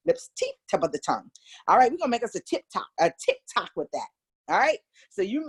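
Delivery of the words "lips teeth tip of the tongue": fast drill. Shown as a demonstration. Teacher running the articulation drill fast for students. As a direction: rattle "Lips, teeth, tip of the tongue" off quickly. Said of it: "start with lips".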